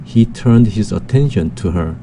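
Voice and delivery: "he turned his attention to her" reread slowly, with "attention" most prominent. Shown as a demonstration. Teacher rereading the sentence to review its stress, slow. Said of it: "다시 한번 보면".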